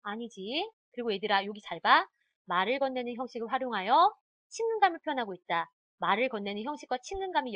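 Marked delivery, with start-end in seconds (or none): none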